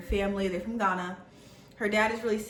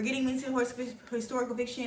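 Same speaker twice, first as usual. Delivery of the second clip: tripping over a word and restarting; real stumble, breaking off mid-word; stuttering; 4 semitones higher than usual. Real, not acted. Reader shouting out books, stuttering. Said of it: "I keep on stuttering".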